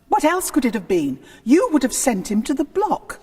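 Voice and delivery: heated retort. Acted. Anne challenges Henry over Wolsey's guilt, heated. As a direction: throw it back at him.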